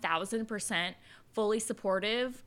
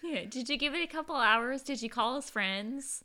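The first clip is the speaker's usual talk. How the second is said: put-on Southern twang, questioning; mock Southern officer brushing off a report; Southern accent; 4 semitones higher than usual. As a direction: quiz them like a drawling Southern cop. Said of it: "why we're doing that accent".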